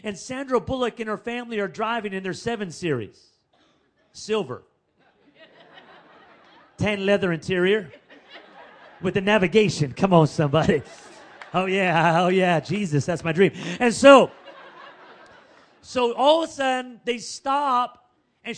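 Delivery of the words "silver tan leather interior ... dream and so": excited hype. Real, not acted. To the congregation, whooping over the luxury car. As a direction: work the crowd over the dream car.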